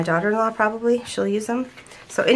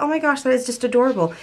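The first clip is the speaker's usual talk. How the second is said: gushing thought; 6 semitones higher than usual. Retold or imitated. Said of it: "And I just thought".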